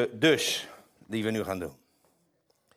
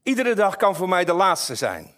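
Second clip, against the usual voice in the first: a dramatic dying father, played up; theatrical old father; 5 semitones higher, 4 dB louder than usual. Shown as a demonstration. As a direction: overplay the old man's "Iedere dag". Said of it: "enig theater zit er ook wel in". (theatrale stervende vader)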